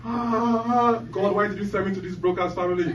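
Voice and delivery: hammed-up crying baby voice; crying newborn. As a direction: play a newborn bawling at God. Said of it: "the guy comes out crying".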